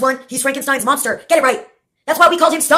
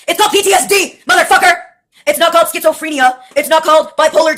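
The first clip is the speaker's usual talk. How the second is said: higher, louder, snapping the word called; fed-up shout at the doctors; angry insistence; 4 semitones higher, 5 dB louder than usual. Real, not acted. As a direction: set them straight with a raised voice. Correcting the doctors' diagnosis.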